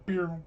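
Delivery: high-pitched "pew" sound effect; vocal zap noise; mimicked blaster shot. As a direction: imitate a little laser shot. Game master voices a blast shot.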